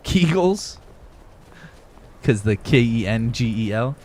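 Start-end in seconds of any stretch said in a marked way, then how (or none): 0.0-0.8 laughing. Real, not acted. Laughing at a name.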